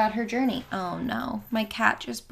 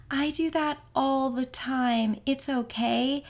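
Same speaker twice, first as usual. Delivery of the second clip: slightly higher, sweetly reassuring; 4 semitones higher, slower than usual. Retold or imitated. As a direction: imitate a kind stranger soothing a caller. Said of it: "this very sweet voice".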